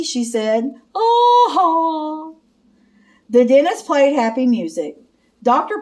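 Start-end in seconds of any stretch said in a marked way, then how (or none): 0.9-2.4 surprised oh. Acted. Clark hears the dentist joke.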